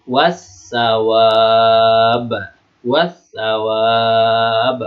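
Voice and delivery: very slow "Wasawab", long hissed s and no l; silent alif lam. Shown as a demonstration. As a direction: recite "Wasawab" with a long, strong final vowel. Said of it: "Dibaca apa?".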